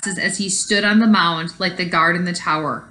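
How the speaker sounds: put-on reading a story aloud to kids; story narration. A narrator's reading. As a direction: tell it like a read-aloud storybook. Teacher reads picture book aloud.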